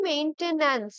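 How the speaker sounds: মেইনটেন্যান্স said clearly as main-ten-ance; careful pronunciation. Shown as a demonstration. Teacher models the word for students, careful pronunciation of মেইনটেন্যান্স. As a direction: pronounce মেইনটেন্যান্স properly, each part distinct. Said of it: "যখন আমরা ঠিকঠাকভাবে pronounce করি".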